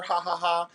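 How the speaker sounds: high-pitched spoken "ha ha ha"; put-on ha-ha laugh; mock laughter. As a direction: fake a laugh in separate, high syllables. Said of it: "we used to laugh at her".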